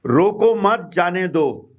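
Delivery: "रोको मत, जाने दो" in two falling halves; ambiguous example phrase. Shown as a demonstration. Teacher introducing a sentence with two meanings, evenly phrased. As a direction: state रोको मत, then जाने दो. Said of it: "अब इसके दो, अ, अर्थ हैं".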